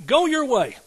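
high, loud ringing command; commanding Jesus. Acted. Preacher voicing Jesus to the centurion, loud command. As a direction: proclaim it as Jesus's order.

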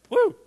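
loud, high "woo"; stirred-up whoop. Real, not acted. Preacher stirred up by his own preaching, excited whoop. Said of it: "Excuse me for getting stirred up".

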